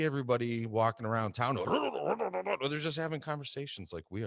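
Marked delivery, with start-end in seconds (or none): 1.6-2.6 high-pitched mock babble; mimicked stereotype intonation. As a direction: imitate an exaggerated intonation in wordless noise. Mimics stereotyped intonation heard on mat.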